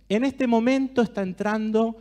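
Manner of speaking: savouring, drawn-out storyteller voice; mouth-watering guided visualization; guided imagery. Acted. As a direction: paint the tray of food slowly so they can taste it. Guided imagery of a food tray.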